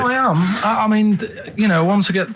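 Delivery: high, flustered protest; stressed. Real, not acted. Producer insists he is impressed, sounding stressed. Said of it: "you're coming all stressed".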